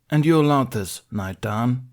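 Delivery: a stern council master, formal and pressing; stern Mace Windu. Acted. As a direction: read out the charges like a cold judge. Mace questions Alara.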